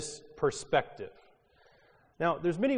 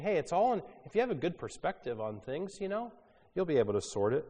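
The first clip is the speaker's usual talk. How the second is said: optimist voice; 4 semitones higher, faster than usual. Retold or imitated. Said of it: "maybe an optimist saying".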